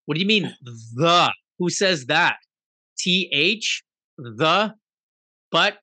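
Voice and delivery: a lightly put-on outraged foreign listener; mock indignant outburst. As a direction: play someone baffled and offended by the word "the". Mocking foreigners' view of "the.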